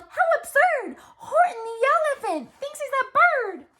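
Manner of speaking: high, jeering crowd voice; mocking yell. A narrator's reading. Friends jeer at Horton for acting like a bird. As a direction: sneer it out like teasing friends. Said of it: "they yelled".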